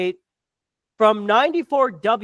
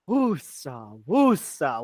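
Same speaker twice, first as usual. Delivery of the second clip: low, drawn-out self-soothing chant; calming mantra; 9 semitones lower, 5 dB quieter, much slower than usual. Pretend. Podcaster settling himself before a long rant, calming mantra. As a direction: breathe out a low, soft mantra.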